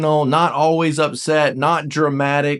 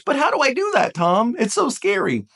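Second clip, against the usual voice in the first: much higher, timid mock voice; higher mock-fearful question; mock scared nine; 7 semitones higher than usual. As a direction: play the worried viewer. Anxious nine asks Tom.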